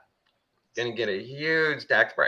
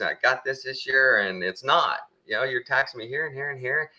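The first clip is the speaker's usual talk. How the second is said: put-on old man complaining; 4 semitones higher than usual. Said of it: "And he says".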